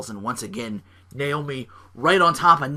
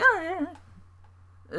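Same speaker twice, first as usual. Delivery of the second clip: sarcastic; much slower than usual. Retold or imitated. Imitating bored listener.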